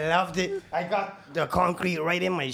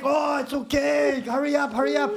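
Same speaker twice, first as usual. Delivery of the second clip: mock dismissive foreman; 9 semitones higher than usual. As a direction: wave off the complaint and rush him. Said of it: "And he's like".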